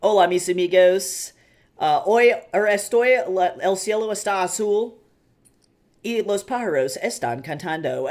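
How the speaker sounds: put-on loud Spanish in a California Valley Girl accent; thick American Valley Girl accent on Spanish. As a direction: imitate a Valley Girl cheerfully butchering Spanish. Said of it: "like, California, like, Valley Girl".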